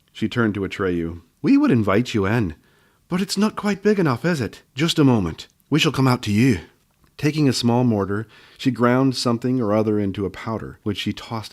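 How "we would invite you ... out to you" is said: a lightly voiced bossy old gnome, louder and higher; a hint of a brisk old healer; bossy little gnome woman; gruff gnome woman.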